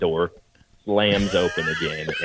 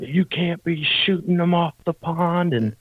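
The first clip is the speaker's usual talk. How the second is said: high-pitched mock angry husband; retold yell; 11 semitones higher than usual. Husband storms down to the hunters yelling, high mock shout. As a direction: bark it out like a puffed-up husband. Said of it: "he's yelling".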